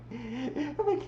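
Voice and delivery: high, slow, whiny pout about not getting a hug; whiny Vanessa. Retold or imitated. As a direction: drag out the complaint like a hurt child. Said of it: "she walks in the room like".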